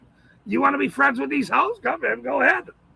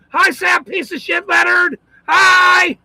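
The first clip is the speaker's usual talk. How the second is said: raised, drawn-out mock hello; mock greeting; 4 semitones higher, slower than usual. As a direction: greet with exaggerated, lifted friendliness. Voices a greeting found online.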